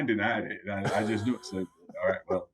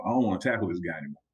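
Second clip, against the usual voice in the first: beaten opponent; 3 semitones lower, much faster than usual. Retold or imitated. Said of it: "makes the opponent say".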